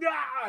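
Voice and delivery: high, loud "aah" imitating a rage; imitated spurt of anger, pitch leaping up; mock angry yell. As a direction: act out a sudden burst of anger. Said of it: "he just has this anger spurt".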